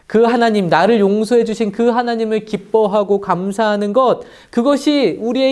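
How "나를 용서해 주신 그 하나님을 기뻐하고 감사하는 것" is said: ordinary delivery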